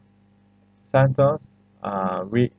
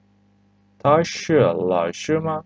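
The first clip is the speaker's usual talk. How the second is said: slowly, each tone clear; teacher modelling the question slowly; slow model reading; 3 semitones higher, slower than usual. Shown as a demonstration. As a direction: read it out slowly for learners.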